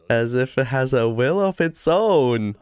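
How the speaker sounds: deep dramatic anime narration; epic narrator voice. Acted. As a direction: intone it like a trailer voice-over.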